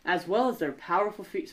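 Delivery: light attempt at an Australian accent. Reading aardvark facts to the co-host in a light Australian accent. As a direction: read it in a mild Australian accent. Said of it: "Is that an Australian accent?".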